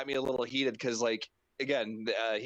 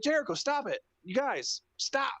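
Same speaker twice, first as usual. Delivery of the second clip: high exasperated squeal; mock pleading scold; 13 semitones higher than usual. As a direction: beg them to stop, half joking. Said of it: "I'm like".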